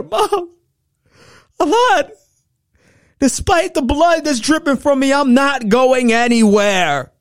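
high, loud, slow pleading insistence; impassioned refusal. Retold or imitated. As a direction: insist with all your heart.

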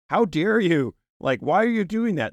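high-pitched imitation of an outraged critic; put-on disapproving challenge; mock indignation. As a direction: act scandalized, pitch jumping up. Mimics critics of stay-at-home mothers.

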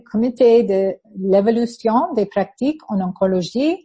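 reads the French name in a French accent; careful French accent on "Comité de l'Évolution des Pratiques en Oncologie"; French pronunciation. Real, not acted. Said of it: "you can do French".

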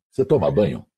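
mock the boss's blunt question; imitating Hélio. Radio boss asks new announcer if he bathes, lightly voiced.

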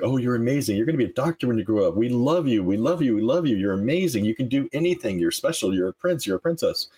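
put-on high, gushing praise for a toddler; lightly voiced doting parents; doting adults. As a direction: coo over a little child.

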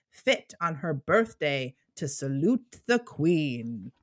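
put-on slow, stately recital of old verse; dramatic poem reading. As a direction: recite it like a grand court poem, lingering on every line. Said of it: "I hate it when you do accents".

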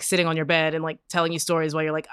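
normal talking voice

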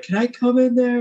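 high-pitched questioning roommate voice; imitated roommate. Roommate asking to come into the room, imitated in a high voice.

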